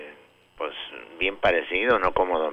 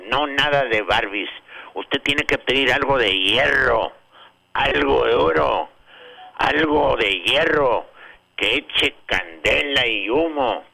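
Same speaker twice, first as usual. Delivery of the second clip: mock booming father; 4 semitones higher, 3 dB louder than usual. Father insists, story.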